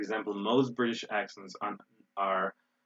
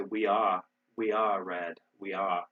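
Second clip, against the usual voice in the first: unsure British try, dropping the R in "are"; attempted British accent; slower than usual. Shown as a demonstration. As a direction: say it British, non-rhotic, not quite managing. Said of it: "In British English, they would say".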